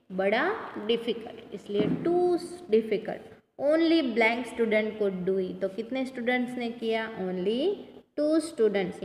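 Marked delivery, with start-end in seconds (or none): 3.6-5.6 very slow, word by word; slow reading. Shown as a demonstration. Teacher reads fill-in sentence to pupils, very slow. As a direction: spell the sentence out slowly for the class. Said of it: "teacher reads exercise sentence".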